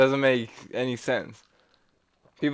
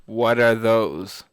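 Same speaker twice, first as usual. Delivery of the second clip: slow meme quote; 4 semitones lower, slower than usual. Retold or imitated.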